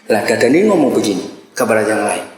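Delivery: ordinary delivery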